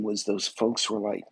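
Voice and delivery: normal talking voice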